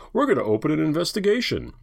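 high-pitched mock announcement; mocking John Roberts. Host scornfully quoting a justice's promised investigation, high mocking voice. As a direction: pitch it up to ridicule him. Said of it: "He's like".

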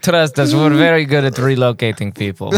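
smug mock Russian mobster; Russian accent. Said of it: "doing the Russian accent".

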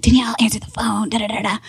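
fast whisper reading his texts. Retold or imitated. Reading boyfriend's texts aloud, quick whisper. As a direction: hush it out quickly.

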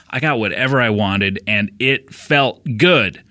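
hammy host sponsor read with drawn-out brand name; playful endorsement, slowing on the key words; podcast ad read. Acted. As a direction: sell it in measured, deliberate phrases. Reads a sponsor ad.

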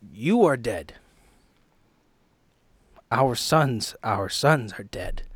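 loud, raw accusation at his dead wife; loud grief-stricken declaration, slowing at the end; anguished outburst. Acted. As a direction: hit each word hard, half breaking. Bernard confronts his dead wife.

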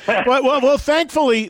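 words squeezed through a real laugh. Real, not acted. Host laughing at the guest's joke about being sued.

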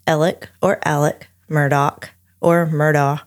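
Alec first as ELL-ick, then AL-ick; local pronunciations. Shown as a demonstration. Host shows local variants, Alec and Murdaugh each said two ways. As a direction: Murdaugh first as MUR-dock, then MUR-daw. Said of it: "they pronounce it".

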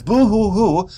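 slow, high mock sobbing; mock boo-hoo. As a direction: whimper it like fake crying. Mocking a sad sob.

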